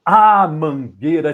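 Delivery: loud, slow opening exclamation; declaimed cry. Shown as a demonstration. Poet opening the poem for Lucas, calling out. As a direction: call out the opening line grandly. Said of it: "da forma como eu recito".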